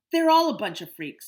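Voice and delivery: put-on a bully's friend shouting insults at the kids; jeering shout. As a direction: bellow the insult.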